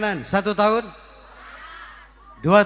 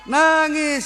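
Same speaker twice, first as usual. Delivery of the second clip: emphatic answer; 7 semitones higher than usual. Acted. Answers own question about widower.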